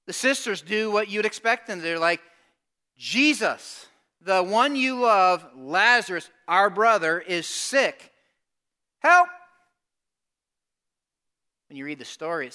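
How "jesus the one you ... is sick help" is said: urgent plea. Retold or imitated. Sisters' urgent plea to Jesus.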